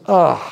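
imitated groan of disdain; disdainful ugh. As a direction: let out a disgusted "ugh". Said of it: "she said she felt disdain".

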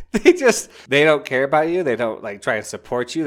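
loud, high-pitched outburst; exasperated indignation. Real, not acted. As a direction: burst out in indignation on a friend's behalf. Indignant on character's behalf after laugh.

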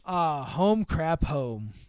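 slow, weary homecoming line; lightly imitated comic actor, drawn out; a hint of movie-star exasperation, slowly; Tom Hanks. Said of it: "hear it in Tom Hanks' accent".

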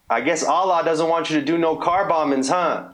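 mocking shout from the coach; barking gym coach. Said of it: "the coach yelled out".

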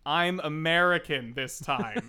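slow, lightly mocked actor faking an American accent; a Scottish actor trying hard to sound American; imitating James McAvoy. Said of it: "who's just doing, like".

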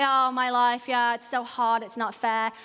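low, mildly mocking woe-is-me; lightly acted moan that sinks as it goes; self-pitying. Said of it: "not to pursue self-pity".

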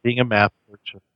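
choppy broken-up call audio; radio breaking up. Real, not acted. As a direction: voice cutting in and out. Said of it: "You're cutting out a little bit there".

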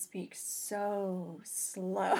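drawn-out imitation of slow talkers; exaggeratedly slow, long-held final word; mock slow talk. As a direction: stretch each word out, mocking slow speech. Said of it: "she's like".

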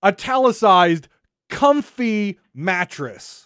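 slow, sarcastic reading of "comfy mattress"; slow, sarcastic "comfy mattress" with a dig; mock reverent reading. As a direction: read the patch note with sneering respect. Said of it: "let me turn my head sideways".

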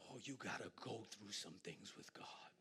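hushed, intense whisper; whispered warning. Acted. Preacher hushing the congregation, whispered warning. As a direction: lean in and whisper it. Sudden hush in sermon.

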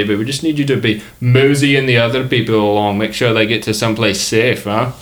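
put-on muddled Australian-Scottish accent; mixed-up comic accent. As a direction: ask for volunteers in a wandering Australian-ish brogue. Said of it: "He's Australian and Scottish".

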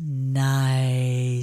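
lightly voiced old grandmother, low and marvelling; a hint of a frail granny's amazed sigh; grandmother's voice. Grandma marvelling at the Christmas tree, lightly voiced.

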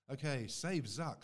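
loud, slow, high title call; announcer call. Acted. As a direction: announce the title like a show host.

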